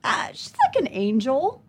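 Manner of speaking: stalling, drawn-out tentative answer; improvising a shaky excuse; hesitant fib. Retold or imitated. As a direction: stretch it slowly into a tentative, rising question.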